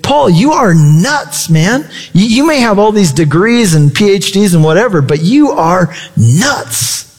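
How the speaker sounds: drawn-out, emphatic retold accusation; hammed-up disbelief, slowing right down on "nuts"; mock exasperation. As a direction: act out an incredulous governor, stretching the key words. Governor's outburst acted out in retelling.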